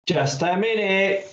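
put-on lightly called stall in a boy's high voice; calling out. A narrator's reading. Billy dashing upstairs, calling back to Mum. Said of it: "he called".

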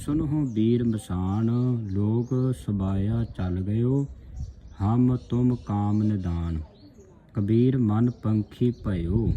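slow, measured verse reading; scripture recitation. Shown as a demonstration. Teacher reads Kabir's saloks for the congregation, slow recitation. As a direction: draw the vowels out, reciting evenly.

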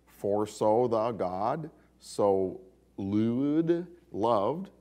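slow, loud Middle English read in a mock Cockney accent. Shown as a demonstration. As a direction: read the old text in a hammed-up Cockney accent. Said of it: "I guess, a Cockney accent".

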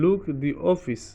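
"the" said as "dee" before office, slow. Shown as a demonstration. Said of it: "দি উচ্চারণ হবে".

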